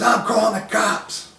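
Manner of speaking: high, slow, put-on tattletale voice; whiny mock threat. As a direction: draw it out like a sulky kid. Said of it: "he goes".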